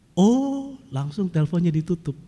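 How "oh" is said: a clipped, higher "oh" before hanging up; deflated oh. Retold or imitated. Telemarketer learning he is a pastor, a disappointed oh. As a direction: let the interest drop out in one "oh". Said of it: "Tahu apa responnya?".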